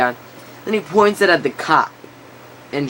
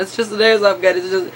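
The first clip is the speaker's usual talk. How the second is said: mock near tears; 5 semitones higher than usual. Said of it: "he's almost crying at this point".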